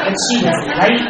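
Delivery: laughing through the admission. Real, not acted. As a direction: giggle while conceding. Laughing at herself.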